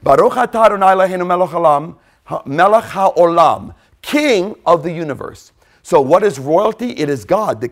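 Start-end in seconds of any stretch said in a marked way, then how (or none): 0.0-3.7 "Baruch atah Adonai" rushed, then "melech haolam" slowed and leaned on; Hebrew blessing. Shown as a demonstration. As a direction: speed through the blessing, then dwell on "melech". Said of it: "The word for king in Hebrew is melech".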